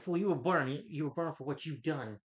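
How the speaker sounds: mock menacing villain line; Schmidt taunting. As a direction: taunt him like a cold movie villain. Villain Schmidt taunts his victim.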